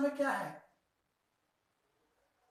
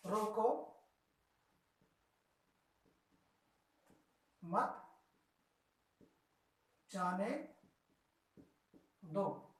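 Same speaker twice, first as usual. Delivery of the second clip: रोको alone, long gap, then मत, जाने, दो singly; pause after रोको; 2 semitones lower, 6 dB quieter, much slower than usual. Shown as a demonstration. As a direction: dictate slowly with a break after रोको. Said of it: "कहाँ पर pause दिया गया है".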